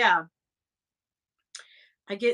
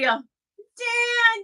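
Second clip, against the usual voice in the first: calling out; 10 semitones higher than usual. Real, not acted. Calling out to a viewer.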